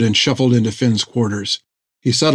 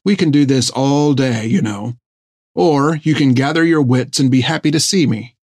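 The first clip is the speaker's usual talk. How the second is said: said calmly. Acted. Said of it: "said calmly".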